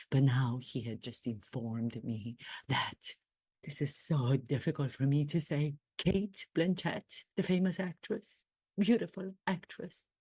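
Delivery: sneaky mock royal confiding; lightly voiced Harry. Comedian's Harry plotting his trip behind the Duchess. Keeps playing Harry monologue.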